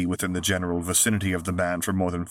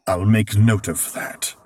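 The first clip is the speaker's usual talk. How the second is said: dry; 2 semitones higher, 7 dB louder, slower than usual. A narrator's reading. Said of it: "he replied dryly".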